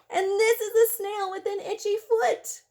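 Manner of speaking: lively, sing-song picture-book reading; reading to children. Acted. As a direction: read the rhymes aloud to little kids.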